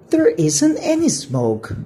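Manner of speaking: put-on high boy voice, a touch let down; a kid sulking that the ridge isn't burning; Flynn, disappointed. Flynn complains to his brother about the ridge, mildly disappointed. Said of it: "said Flynn".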